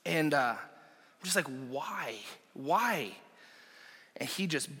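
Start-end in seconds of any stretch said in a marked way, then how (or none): 1.7-3.1 much softer, gentle repeated why; soft pleading. Retold or imitated. Pastor gently asking the boy who threw the punch, softly. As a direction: ask it softly, almost hushed.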